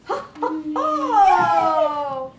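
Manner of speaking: hearty ho ho laugh. Real, not acted. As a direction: laugh it out loud. Laughing at book title.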